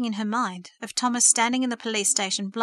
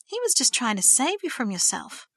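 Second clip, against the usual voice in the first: angry retort; 3 semitones higher than usual. Acted. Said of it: "retorted Verity angrily".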